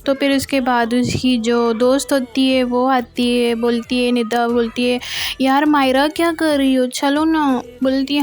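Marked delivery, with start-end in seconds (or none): 5.4-7.6 higher, lilting, impatient coaxing; acted pleading nudge to hurry up; urging a friend. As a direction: call your friend along, voice raised a little. Friend arrives and urges her along.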